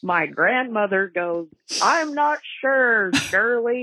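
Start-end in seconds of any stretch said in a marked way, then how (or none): 1.8-3.8 raised, drawn-out grandmotherly reply; calling back. Retold or imitated. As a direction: call it back slowly, pitched up.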